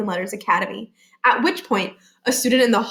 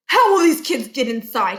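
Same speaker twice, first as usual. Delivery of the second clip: higher, anxious principal voice; worried principal; 3 semitones higher than usual. Acted. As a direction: fret aloud. Barkin worried.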